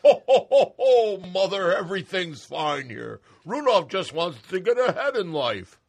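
loud, high ho-ho laugh; laughing Santa. Acted. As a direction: cover it with a booming laugh.

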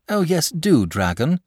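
put-on boy urging the dragon to fight, delighted. A narrator's reading. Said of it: "said the boy delightedly".

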